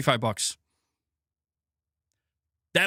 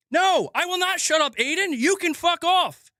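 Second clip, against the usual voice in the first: higher, heated snap at a chatter; angry retort; 9 semitones higher than usual. Real, not acted. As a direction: tell the heckler off for real. Snapping at chatter Aiden.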